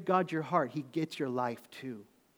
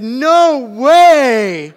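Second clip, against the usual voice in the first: loud, high laughing shout; 9 semitones higher, 21 dB louder than usual. Retold or imitated. Boy at the restaurant refusing, a loud high shout. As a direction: blurt it out with a laugh. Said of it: "Real loud".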